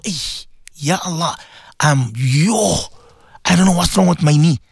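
lightly acted sick person's moaning; mock ailing complaint. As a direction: groan through a list of aches, half in earnest.

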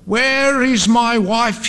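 high, drawn-out mock scream; slow, high cry of desperation, not full volume. A narrator's reading. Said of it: "he screamed".

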